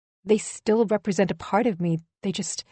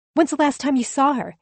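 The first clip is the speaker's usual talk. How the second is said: mocking rival; 7 semitones higher than usual. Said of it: "she asked me".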